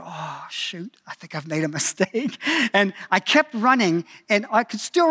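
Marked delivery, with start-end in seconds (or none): 0.0-2.4 inner thought. Retold or imitated. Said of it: "and I thought".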